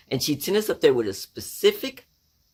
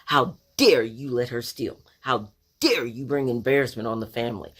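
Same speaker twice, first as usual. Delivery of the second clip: mildly acted scolding; upset mother. Embarrassed mom scolds the older sisters, mild mock indignation. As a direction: hit each DARE in a mock maternal reproach. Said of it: "She was embarrassed and upset".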